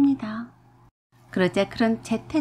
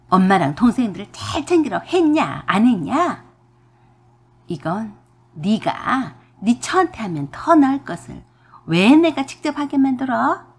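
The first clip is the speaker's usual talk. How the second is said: mother-in-law yelling at her son, louder toward the end; scolding yell; 3 dB louder than usual. Acted. Mother-in-law scolding her eldest son in a rising yell. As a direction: berate him, building louder. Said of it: "소리를 고래고래 지르셨어요".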